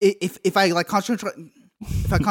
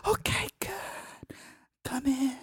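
crying; 5 semitones higher, 7 dB quieter than usual. Acted. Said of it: "He is crying".

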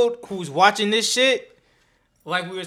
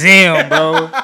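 impressed damn, bro; 3 semitones lower, 12 dB louder than usual. Retold or imitated. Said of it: "you're just like".

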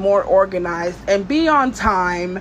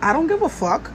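defiant shrug; 5 semitones higher than usual. Retold or imitated. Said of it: "I'm just like".

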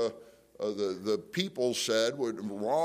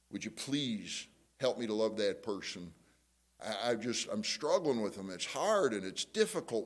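demonstration prayer. Shown as a demonstration. Models a prayer for an enemy.

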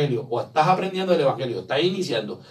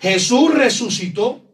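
slow, loud and higher, declaring victory; triumphant proclamation; 5 semitones higher, 4 dB louder, slower than usual. Acted. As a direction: ring it out like good news. Preacher proclaims resurrection to congregation.

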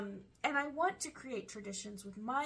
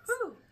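recovering whew; 11 semitones higher than usual. Real, not acted. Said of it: "I'm choking on the smoke".

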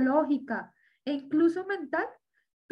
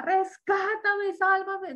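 retold desperate cry; 4 semitones higher, much slower than usual. Retelling how he cried out to Christ, imitated yelling. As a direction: stretch out a mock cry for rescue. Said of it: "es que él gritaba".

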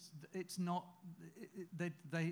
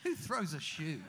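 Austin Powers; 6 dB louder, slower than usual. Retold or imitated. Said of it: "I don't wanna do your accent".

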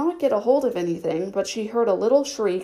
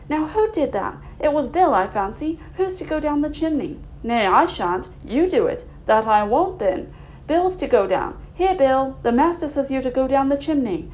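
loud, higher calls of busy workmen; workmen shouting; 4 semitones higher, 3 dB louder than usual. Acted. Workmen calling to each other over the ladders, loud. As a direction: bark orders across the roof. Workers arguing about chimney.

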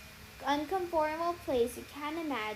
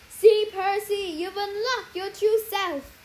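gloating sorceress; 6 semitones higher, 8 dB louder, slower than usual. Acted. Sorceress gloats over captive.

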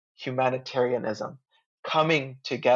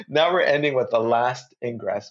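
laughing as she restarts the sentence; amused, giggly restart; laughing through it; 4 dB louder than usual. Real, not acted. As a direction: let a real laugh spill into the words.

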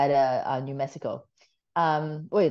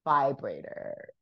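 slow spelled-out word; 3 semitones lower, 4 dB quieter, slower than usual. Retold or imitated. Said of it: "And I'm like".

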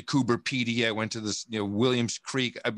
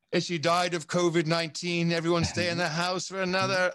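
higher-pitched mock official; mimicked official announcement; 5 semitones higher than usual. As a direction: imitate an official announcing a lockdown. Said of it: "that's not my Australian accent".

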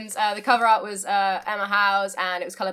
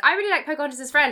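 put-on little girl voice; 7 semitones higher, 6 dB louder, faster than usual.

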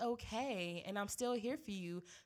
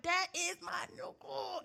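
proud laughing quote; 9 semitones higher, slower than usual. Retold or imitated. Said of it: "I was like".

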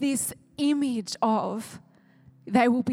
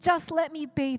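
scripture story reading; 3 semitones higher, 5 dB quieter than usual. Acted. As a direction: read the story gently, a little lifted. Reads the parable aloud.

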